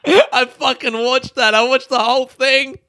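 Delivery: high, loud, embarrassed laughing admission; laughing confession. Real, not acted. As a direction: confess it while cracking up.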